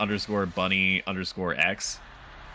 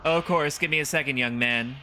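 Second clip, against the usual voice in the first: lightly voiced, obliging old lady; higher voice, an elderly hostess agreeing; polite old woman; 4 semitones higher than usual. Old woman serving her visitor.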